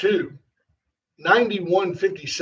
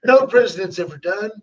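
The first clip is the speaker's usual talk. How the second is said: higher-pitched boastful Trump voice; raised-pitch Trump impression, pausing between boasts; Trump impersonation; 4 semitones higher than usual. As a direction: bring it back round like Trump, self-congratulating. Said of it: "You gotta bring it back to him".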